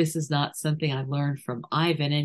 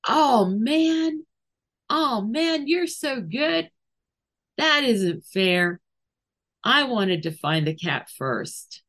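mock sore loser; 6 semitones higher than usual. Shown as a demonstration. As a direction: whine like a kid who lost the game. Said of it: "And I said".

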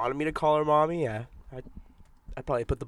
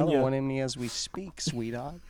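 put-on Bronx accent. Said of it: "in a Bronx accent for no reason".

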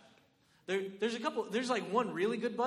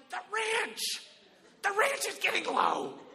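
much higher, whiny alarm; mock panic; 13 semitones higher, 7 dB louder than usual. Believers fretting over the ranch like guests, whiny.

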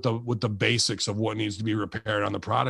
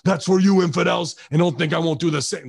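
louder, higher ringside taunt; defiant wrestler taunt; 4 semitones higher, 4 dB louder than usual. Pretend. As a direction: throw it at the camera as a challenge. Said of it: "look right in the camera and go".

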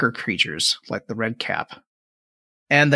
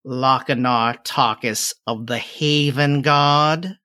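put-on old hag; much slower than usual. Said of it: "the crone says".

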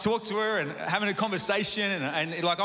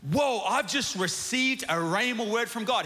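amazed whoa; 5 semitones higher, slower than usual. Retold or imitated. Peter's inner reaction voiced.

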